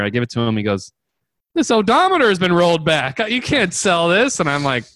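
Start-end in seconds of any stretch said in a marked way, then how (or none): 1.5-4.4 retold alarm. Acts owner's shocked discovery.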